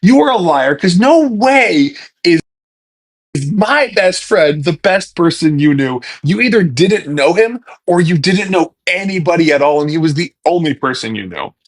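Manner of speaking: mock indignant retort. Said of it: "And I'm like".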